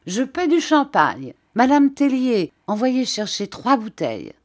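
high, loud festive call; exclaiming. A narrator's reading. Philippe calling out to Madame Tellier, loud and high. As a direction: announce the round to the whole room. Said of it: "monsieur Philippe s'écria".

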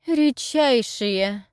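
slow, emphatic correction; correcting Deborah. A narrator's reading. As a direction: stretch the word out, correcting him. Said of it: "поправила Дебора".

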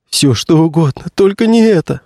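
high, strained groan of begging; plead, leaning hard on не; the actor begs the witch to spare him, moaning; moaning plea. Acted. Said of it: "стонал актёр".

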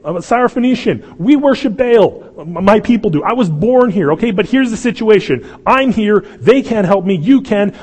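high, loud, urgent plea of a desperate mother; pleading Canaanite woman. Acted. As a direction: beg for your daughter, pushing hard. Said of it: "She's saying".

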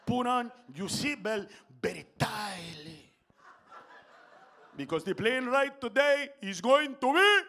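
put-on slow, drawn-out Latino-accented announcement; Latino captain's accent. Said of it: "this is exactly how he sounded".

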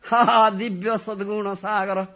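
high, loud wailing call to Krishna; crying lament. Acted. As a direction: cry out his names in longing.

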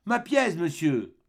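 put-on high, insistent child's voice; a boy pressing for his coin; pleading little boy. Child repeats demand.

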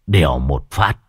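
usual speaking voice

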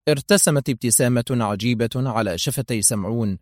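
plain reading voice

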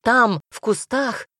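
slightly high, urgent warning; calling out. A narrator's reading. Heroine warns of someone in bushes, calling. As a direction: point it out with mild alarm. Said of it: "позвала я".

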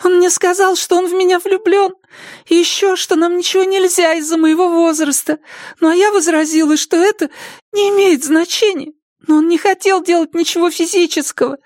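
put-on high young girl's answer. (тихий высокий голос девушки)

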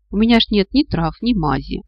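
ordinary delivery

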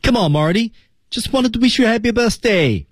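rising on Marty, falling on birthday; teacher's model reading. Shown as a demonstration. Teacher reading the line aloud for students, rising then falling tune. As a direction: read it out as the model for the class. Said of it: "听老师读一遍".

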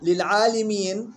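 slow للعالمين said "lil-'aalimiin"; kasra on lam. Shown as a demonstration. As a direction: clear "li" before the final "miin" of للعالمين. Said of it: "بكسر اللام". (للعالمين بكسر اللام)

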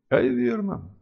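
ordinary delivery

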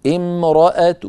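امرأة with a weak damma on the t; stop with rawm. Shown as a demonstration. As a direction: finish امرأة on a faint short -tu. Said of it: "وإن وقفنا بالروم". (امرأة بضمة ضعيفة على التاء)

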